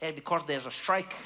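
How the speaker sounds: put-on deadpan, not-quite-Dutch accent; weird Dutch-like accent. Man answering a visitor about transport, weird Dutch-like accent. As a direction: explain simply in an odd Dutch-ish accent. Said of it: "like, Dutch, but it wasn't Dutch accent".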